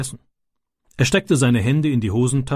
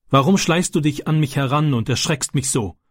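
angry question; 3 semitones higher than usual. Acted. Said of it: "sagte sie böse".

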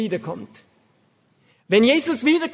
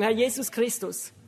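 prayer. Shown as a demonstration. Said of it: "sagen ungefähr Folgendes".

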